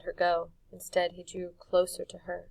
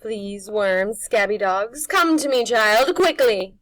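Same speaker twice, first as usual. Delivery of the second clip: high, loud crone summoning; witch calling; 3 semitones higher, 14 dB louder, slower than usual. Acted. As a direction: call him in like a hungry witch.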